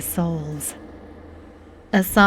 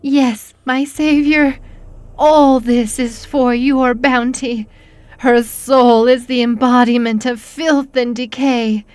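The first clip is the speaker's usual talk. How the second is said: fervent devotion; 4 semitones higher, 4 dB louder than usual. Acted. Servant worships the demon.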